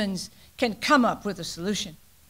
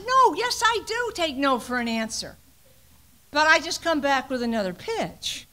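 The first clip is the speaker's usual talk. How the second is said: retold playful reply; 3 semitones higher, 3 dB quieter than usual. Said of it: "I said".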